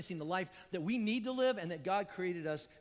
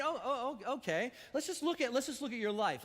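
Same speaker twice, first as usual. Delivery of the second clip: rising, incredulous jabs at the listener; a hint of a scornful interrogator; confrontational mock Jesus; 3 semitones higher than usual. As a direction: needle him, pitch climbing higher. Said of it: "what Jesus could have done is going".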